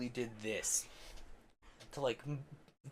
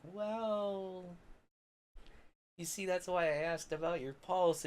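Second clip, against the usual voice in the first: higher smug explaining; 8 semitones higher, slower than usual. Retold or imitated. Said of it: "I'm like".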